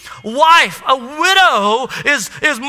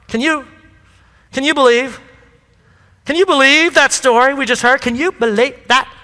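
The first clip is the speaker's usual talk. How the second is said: valley snob. Retold or imitated. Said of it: "So my Abby is like a valley snob".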